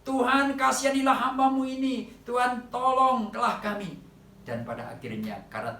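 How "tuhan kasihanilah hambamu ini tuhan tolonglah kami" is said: higher, louder pleading shout; desperate cry for help. Retold or imitated. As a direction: beg the Lord loudly for mercy. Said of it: "dia berteriak".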